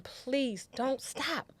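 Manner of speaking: high, desperate pleading, pitch way up; frantic high pleading. Retold or imitated. Pleading with the driver not to stop, high and frantic. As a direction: beg the driver not to stop, near panic. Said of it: "kept screaming at him".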